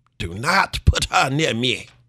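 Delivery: very slow fake accent, starting British. Quoting a man's demand about seating, in an unplaceable put-on accent. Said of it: "I don't know what accent that was".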